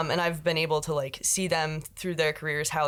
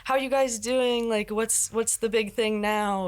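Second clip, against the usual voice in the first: cheery texting greeting; 5 semitones higher than usual. Retold or imitated. Friends texting each other cheerfully.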